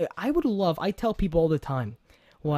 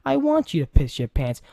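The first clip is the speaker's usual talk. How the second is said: mock intimidating; 5 semitones higher than usual. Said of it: "You have the Andre the Giant persona".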